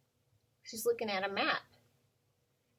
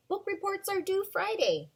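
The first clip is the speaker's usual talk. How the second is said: higher, bossy classroom teacher voice; teacher announcing; 11 semitones higher than usual. Pretend. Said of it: "as a teacher in a classroom".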